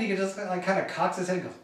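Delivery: ordinary delivery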